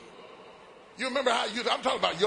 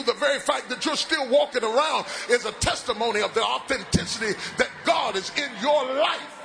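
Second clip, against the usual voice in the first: preaching at full force; 3 semitones higher than usual. Acted. Preacher to congregation, building to a shout.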